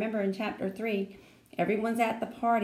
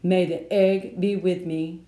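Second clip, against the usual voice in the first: solemn; 5 dB louder, slower than usual. A narrator's reading. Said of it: "Sheldon swallowed real hard".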